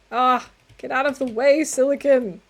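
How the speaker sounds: frustrated shout. Real, not acted. Yelling at game item.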